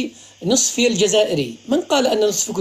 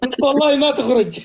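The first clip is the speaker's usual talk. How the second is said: laughing; 5 semitones higher than usual. Real, not acted. Host laughing as he quotes himself. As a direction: laugh out the line while telling it. Laughing while retelling his reply.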